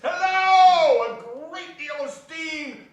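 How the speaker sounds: startled joyful call; excited hello. Acted. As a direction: burst out in surprise. Exclamation at the steam.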